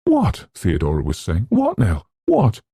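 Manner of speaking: very high alarmed questions; just jolted awake, confused; startled. Acted. Theodora woken, startled.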